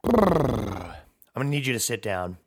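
hushed whispered confession to parents; lightly voiced solemn daughter, whispering; mock grave daughter. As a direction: daughter breaking grave news to her parents, in a hush. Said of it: "you said".

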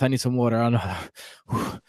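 out of breath after a long read; winded, catching breath with a sigh. Real, not acted. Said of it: "I need to catch my breath".

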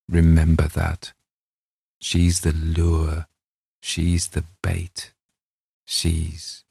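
measured, deliberate reading with drawn-out phrases; dramatic story narration. A narrator's reading. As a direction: noir tale read in an English accent. Reads the story aloud, dramatic close.

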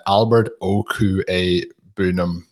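"Okwue Bunam" sounded out slowly, part by part; careful pronunciation attempt. Shown as a demonstration. Host having a go at a hard name, slow and careful with "Okwue Bunam". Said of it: "I'm gonna have a, a go at it here first".

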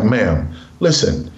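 imitated coach talking the mom round; coach pleading. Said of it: "He's like".

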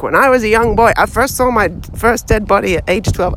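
a light, half-hearted put-on narrator accent; lightly imitating a film voiceover accent; Richard Dreyfuss accent. Host quoting the Stand By Me opening in a mild film-narrator accent. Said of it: "I don't know why I'm trying to do the accent".

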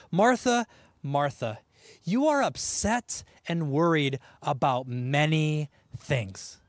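tenderly name her twice, then ease down; gentle, not a rebuke. Retold or imitated. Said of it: "which isn't a rebuke".

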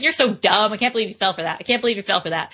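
squawky bird taunting; mock a fool like a parrot. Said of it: "That's my parrot impression".

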